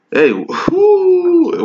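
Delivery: high, sudden hype cry; excited whoop. Real, not acted. Preacher whooping at the crowd after scripture, excited. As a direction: whoop like the verse just hit home.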